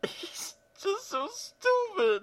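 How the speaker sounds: slow, tiny, very high voice; thin high-pitched whine; high squeal. Acted. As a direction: squeak it out slowly and softly. Breaking down over stupid script line.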